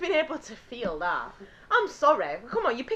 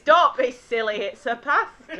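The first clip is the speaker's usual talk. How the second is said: slower, louder mum impression; quoted catchphrase; 6 dB louder than usual. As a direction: deliver it as a mum's dismissal. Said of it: "talking about new phrase".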